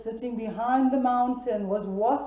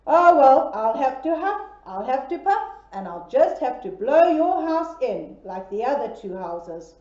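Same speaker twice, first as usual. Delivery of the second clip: wolf threat; 6 dB louder than usual. Acted.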